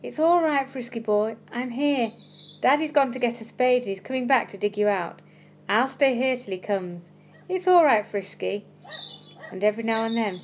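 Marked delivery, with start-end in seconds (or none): 0.0-8.6 calling reassuringly. Acted. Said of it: "he kept calling".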